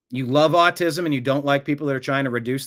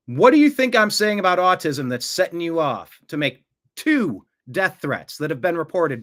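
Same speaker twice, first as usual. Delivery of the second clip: angry demand; 3 semitones higher, 3 dB louder than usual. Real, not acted. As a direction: press the troll heatedly for an answer. Host demands troll explain threats.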